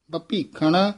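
ਬਪੀਖਣ starting with a plain ਬ, not ਭ; correct pronunciation. Shown as a demonstration. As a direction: begin ਬਪੀਖਣ with a clean unaspirated ਬ. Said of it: "ਬਪੀਖਣ ਉਚਾਰਨ ਕਰਨਾ ਹੈ". (ਬਪੀਖਣ ਦਾ ਸਹੀ ਉਚਾਰਨ)

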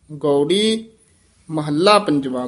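ਗੌੜੀ, a short rest, then ਮਹੱਲਾ ਪੰਜਵਾ; don't run ਗੌੜੀ into ਮਹੱਲਾ; ਗੌੜੀ ਤੇ ਮਹੱਲਾ ਵੱਖ-ਵੱਖ; separated words. Shown as a demonstration. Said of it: "ਗੌੜੀ ਮਹੱਲਾ ਵੀ ਇਕੱਠਾ ਨਹੀਂ ਕਹਿ ਦੇਣਾ".

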